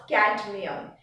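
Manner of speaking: cadmium with a clearly sounded D; pronounced D. Shown as a demonstration. Teacher explaining the symbol C D, pronounced D. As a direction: sound the D in cadmium before moving on. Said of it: "is more pronounced".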